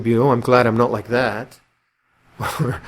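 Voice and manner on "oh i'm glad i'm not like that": smug patronizing. Retold or imitated. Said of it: "like patronizing attitude".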